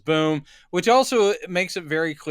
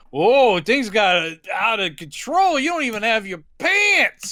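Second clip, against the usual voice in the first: imitating Ralph; 5 semitones higher, slower than usual. Friend remarks on Jeremy's missing pants, mock amused. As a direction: play the amused friend lightly. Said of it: "It's like going".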